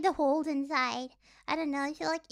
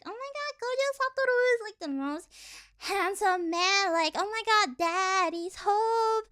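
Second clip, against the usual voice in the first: TikTok fangirl; 3 semitones higher than usual. Retold or imitated. Mocking a TikTok fangirl swooning over Gojo, high. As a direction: swoon over an anime man. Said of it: "a TikTok rendition".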